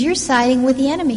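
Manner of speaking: a king lashing out at his son; angry accusation. Retold or imitated. Saul accusing Jonathan, fast and loud. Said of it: "Saul vents his anger on Jonathan".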